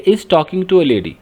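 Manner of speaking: half speed, deliberate; slow teacher's read-out. Shown as a demonstration. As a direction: read the predicate slowly to the class. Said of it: "इसका ये predicate है".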